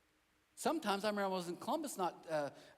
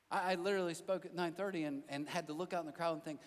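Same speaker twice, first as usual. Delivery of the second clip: usual speaking voice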